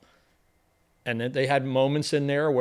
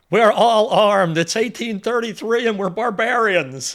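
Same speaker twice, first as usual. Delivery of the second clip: slow, louder, higher on we're all armed; regal queen quote; 6 semitones higher, 7 dB louder, slower than usual. Retold or imitated. Host quoting his favorite queen line, grand and slow. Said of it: "She says".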